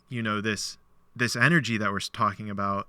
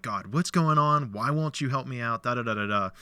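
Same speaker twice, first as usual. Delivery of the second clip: frustrated cursing; 2 semitones higher than usual. Retold or imitated. Man who can't fix his fence, complaining to God. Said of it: "I don't wanna say cursing God".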